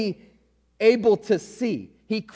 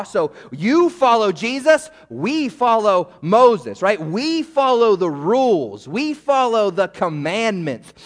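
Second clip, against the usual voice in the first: louder, slow self-satisfied boast; slow, louder mock of self-righteous pride; smug Pharisees; 4 dB louder, slower than usual. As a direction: puff up like a proud rule-keeper.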